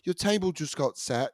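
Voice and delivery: high, soft British hostess; fake British accent. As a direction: mimic a polite British hostess. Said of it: "did a British accent".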